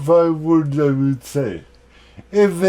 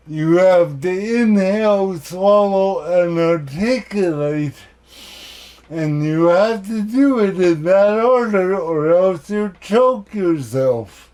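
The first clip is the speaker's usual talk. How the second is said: deliberate phrases split by pauses; demonstrating a careful therapy voice; speech therapy voice. Shown as a demonstration. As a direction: articulate carefully, stopping between phrases. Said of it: "when you speak in your speech therapy voice".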